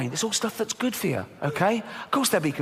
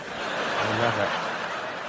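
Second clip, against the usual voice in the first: breathy whisper; 9 semitones lower, 3 dB quieter, much slower than usual. Acted. Savouring how they love cake.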